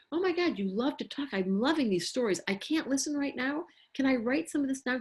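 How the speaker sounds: put-on animated parent engaging a chatty child; enthusiastic validating. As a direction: play up keen interest in a child's stories.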